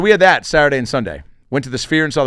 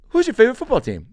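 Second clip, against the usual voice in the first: put-on lightly raised kid voice, a touch higher; the kid asking his favorite team, a lightly higher voice; imitating a cute kid; 10 semitones higher than usual. Light kid voice asking a question. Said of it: "So cute".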